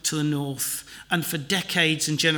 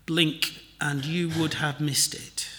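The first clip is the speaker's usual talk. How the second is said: breathy whispered aside; 7 dB quieter than usual. Acted. Preacher whispering the refrain about Zephaniah's hope.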